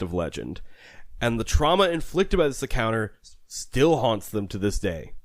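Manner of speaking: dramatic storyteller introduction; story intro narration. Acted. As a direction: set up the tale like a host.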